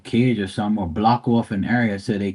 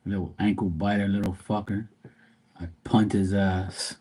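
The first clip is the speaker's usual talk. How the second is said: muttered insult; 6 dB quieter than usual. Real, not acted. Muttering about neighbor's dog.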